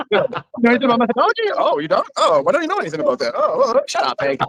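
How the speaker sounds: high, fast, snarky nerd voice; mock a snarky know-it-all. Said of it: "talk in my Revenge of the Nerds voice".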